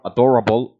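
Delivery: "adorable" the American way; American pronunciation. Shown as a demonstration. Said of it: "that is the way an American".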